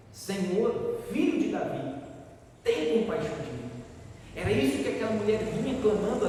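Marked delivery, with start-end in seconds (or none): 0.1-3.7 retold cry for mercy. Preacher voices the Canaanite woman imploring Jesus, mild retold cry. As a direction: call out a restrained plea, settling at the end.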